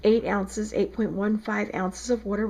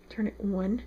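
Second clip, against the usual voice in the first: South Jersey accent. Real, not acted. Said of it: "You like my South Jersey accent?".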